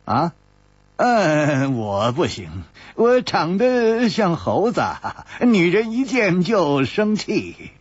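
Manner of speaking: unhurried, slow self-mocking; a hint of a lazy drawl; leisurely Chu Liuxiang. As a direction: shrug it off slowly. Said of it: "悠然说".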